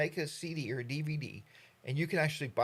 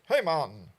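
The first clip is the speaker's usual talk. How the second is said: put-on louder, light Jamaican accent on Hey, man; 6 dB louder than usual. Vlogger mimics the Jamaican greeting, lightly accented. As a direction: drop it easy like a Jamaican local. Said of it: "their thing is".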